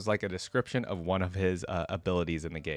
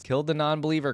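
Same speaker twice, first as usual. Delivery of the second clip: raised, higher war cry; enemy battle cry; 7 semitones higher than usual. Acted. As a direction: shout it like a fanatic. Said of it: "cry his enemies".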